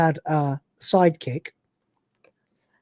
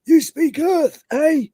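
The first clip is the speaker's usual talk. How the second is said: higher, sly mocking question; sly simulant; 8 semitones higher, much slower than usual. Simulant catching the Cat speaking Earth, higher and sly. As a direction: catch him out gleefully. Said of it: "he goes".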